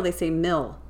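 mill said short like M I L L; meal as mill. Retold or imitated. Cohost mocking fast-food workers' pronunciation, mill. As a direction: mill rhyming with hill. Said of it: "they don't say meal".

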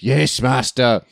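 slow, servile horror henchman voice; Igor. Acted. Co-host imitating the Frankenstein sidekick, slow creepy servant. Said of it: "like, Igor from the Frankenstein movies".

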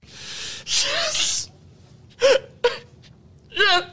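high, shouting victory boasts; cocky breathless boxer boasts. Acted. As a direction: crow about the win, laughing. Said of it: "quick recap of the Liv saga".

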